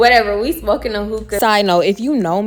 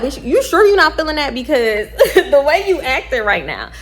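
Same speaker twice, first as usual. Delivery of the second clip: teasing friend; 5 semitones higher than usual. Retold or imitated. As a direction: needle her playfully, voice up high. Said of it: "So I'm like".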